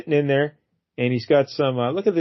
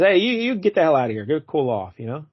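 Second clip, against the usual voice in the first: retold yell; 3 semitones higher than usual. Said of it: "Leo just yells at him".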